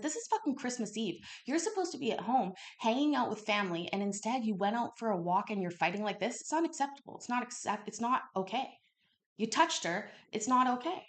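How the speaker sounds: fast, high mock scolding rant; retold angry scolding. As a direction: lecture him hard, replaying the outrage. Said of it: "when I was starting yelling".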